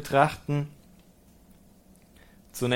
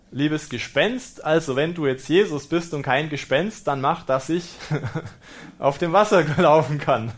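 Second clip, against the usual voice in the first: amused mock plea. Mock quote of Peter to ghost.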